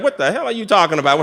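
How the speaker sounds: comic exasperation; mock angry. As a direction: act out being mad, played for laughs. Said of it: "I'm looking real angry".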